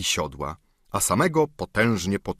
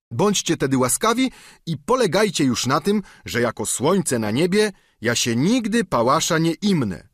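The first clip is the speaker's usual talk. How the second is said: higher, whining plea; pleading squire; 8 semitones higher, 3 dB louder than usual. Acted. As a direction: beg like a bruised peasant. Sancho voiced.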